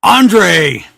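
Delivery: a mild yell for attention; yelled name. Acted. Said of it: "Boogeyman yelled".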